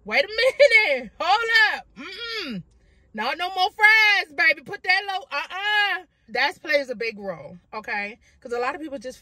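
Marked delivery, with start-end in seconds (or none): 0.0-6.0 sassy body voice. Pretend. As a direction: scold like a sassy sister. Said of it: "my body be like".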